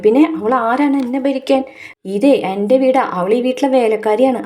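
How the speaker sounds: indignant, as the son defending his status; retold heated reply. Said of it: "നീ എന്തിനാണ് ഇങ്ങനെ ചൂടാവുന്നത്?".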